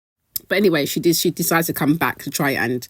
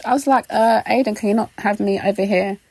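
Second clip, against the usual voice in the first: emotional; 6 semitones higher than usual. Real, not acted. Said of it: "I'm getting a little bit emotional".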